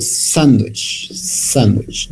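"sandwich" with weight on SAND, falling after; stress on first syllable. Shown as a demonstration. Teacher models word stress for students, SAND stressed. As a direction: repeat "sandwich" hitting SAND. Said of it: "The first syllable".

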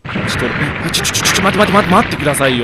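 scrambling not to fall; real alarm, stuttering pleas; panicked stammer. Real, not acted. Slipping toward a drop.

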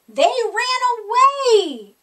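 high, loud, slow shout of alarm; yelled. A narrator's reading. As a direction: call it out together in a panic. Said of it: "everyone yelled".

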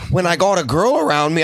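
failed Philly accent that lands Canadian; botched Philly accent. Shown as a demonstration. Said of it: "that was Canadian. I can't do a Philly accent".

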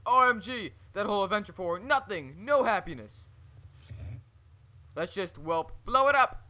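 rising manic rant, ending loud; wild unhinged ranting. Acted. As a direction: build to a loud crazed outburst. Over-the-top map villain reading.

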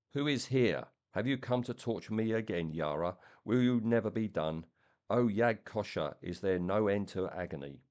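a tortured blind creature crying out; strange stammering creature. Acted. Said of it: "strange, stammering voice that never changed its key".

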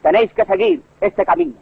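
mock oratory, laying down reasons to the public; orator addressing crowd. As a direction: declaim it like a public speaker. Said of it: "Se puede usar de ella para decir".

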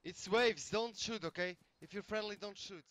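anxious pleading. Real, not acted. Begging players not to shoot.

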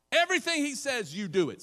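high, loud insistence; emphatic command. Real, not acted. Preacher repeating Mary's order to the congregation, loud. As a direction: drive the command home.

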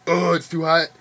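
mock whiny complaint about winter; mock complaining. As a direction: whine it like a grumpy Wisconsinite. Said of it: "they're like".

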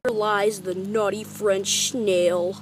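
slow, grave graveside announcement; mock solemn epitaph. Kid mourning the snail, slow mock eulogy. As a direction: intone it like a funeral plaque.

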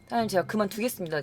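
soft, polite retold announcement; quietly tender your resignation to the boss; restrained and deferential; subdued resignation.

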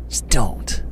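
tense hushed plea; whispering. Real, not acted. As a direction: breathe the words, barely voiced. Begging the machine to stay quiet.

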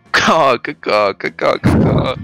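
loud squawking chicken caw; mock chicken. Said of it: "imitation of a chicken".

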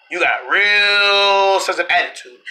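a slow, drawn-out character voice; slow put-on voice. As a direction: say it slowly in a different voice. Same line said differently later.

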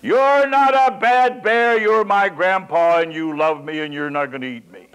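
put-on cling and say it like a small child; child's voice. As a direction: grandson hugging his grandpa, high child's voice. Grandson hugs the bear.

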